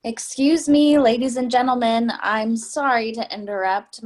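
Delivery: a well-worn sob story for the subway car; rehearsed sympathetic plea. Acted. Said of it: "speaks in a sympathetic but rehearsed voice".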